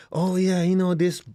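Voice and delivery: lightly voiced complainer; mock complainer. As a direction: mimic a griping classmate, mildly. Mocking a complaining student.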